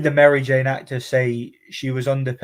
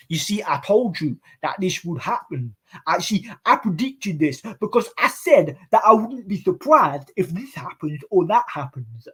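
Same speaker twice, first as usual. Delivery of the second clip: mock smug Hatman; 5 semitones higher than usual. Imitating Hatman claiming credit.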